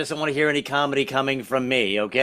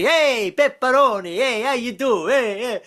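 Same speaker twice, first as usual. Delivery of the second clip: pizza guy greeting; 8 semitones higher, slower than usual. Retold or imitated. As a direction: hail a regular at the counter. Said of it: "they call me Pepperoni".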